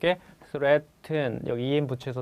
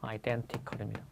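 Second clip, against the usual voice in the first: slow model word; 5 semitones lower, 11 dB quieter, much slower than usual. Shown as a demonstration. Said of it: "identical 많이 들어보셨죠".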